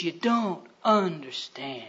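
slow, soft, low reply; quiet sorrow. Acted. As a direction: let each word fall gently. Jesus answering the crying people.

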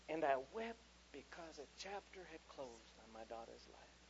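quiet, sincere storytelling; tender reminiscence. Real, not acted. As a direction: let the voice sink with fatherly tenderness. Tender memory of daughter growing up.

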